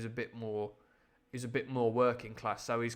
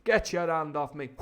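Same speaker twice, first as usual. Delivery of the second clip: alarmed command; 5 semitones higher, 8 dB louder than usual. Acted. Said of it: "another one of the Yoda moments".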